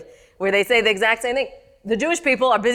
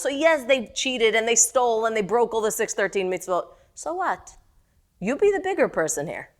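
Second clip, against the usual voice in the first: arguing with God, rising in pitch; pleading protest. Acted. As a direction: talk back like a hurt child to a parent. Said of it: "he talks back to HaKadosh Baruch Hu and says".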